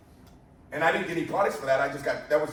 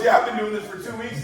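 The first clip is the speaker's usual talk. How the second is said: high, loud, giddy impression of a new recruit; comically overexcited, voice raised; retold stoked newbie; 5 semitones higher, 6 dB louder than usual. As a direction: gush like a thrilled beginner. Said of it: "I'm stoked".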